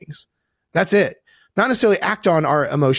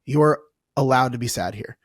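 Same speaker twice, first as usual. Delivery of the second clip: gentle reassurance. Retold or imitated. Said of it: "what if you said".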